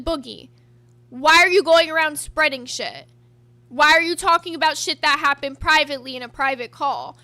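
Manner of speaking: loud firm confrontation; confronting. Retold or imitated. Retelling her confrontation of Boogie, loud and firm. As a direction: demand answers, loud. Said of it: "I came in there calm as shit".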